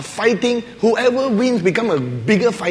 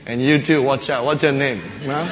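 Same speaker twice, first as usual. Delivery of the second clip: mock menacing threat; 9 semitones lower, 4 dB quieter than usual. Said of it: "he turned to the other soldier".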